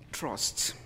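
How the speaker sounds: breathy whisper of "Trust"; whispered word. Acted. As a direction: whisper it as a weighty point. Solemn one-word sermon point.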